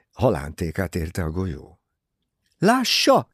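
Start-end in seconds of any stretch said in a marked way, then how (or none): 2.6-3.3 sudden high, loud outburst; wild cry. A narrator's reading. Jacqueline bursting out at Poirot, a wild shout. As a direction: cry it out wildly, pitched right up. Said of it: "kiáltott vadul Jacqueline".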